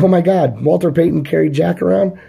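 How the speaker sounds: stunned disbelief. Retold or imitated. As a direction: play the dad floored by the news. Dad hears Walter Payton visited.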